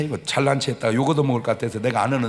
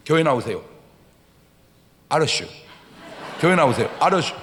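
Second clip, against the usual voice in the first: Chungcheong drawl; 3 dB louder, faster than usual. Retold or imitated. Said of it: "충청도".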